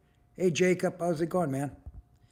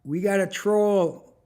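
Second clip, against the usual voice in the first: louder and slow, each word drawn out; loud slow announcement; 3 semitones higher, 5 dB louder, slower than usual. Real, not acted. Streamer to viewers, announcing a troll, loud and slow. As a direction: call out the troll to the whole stream.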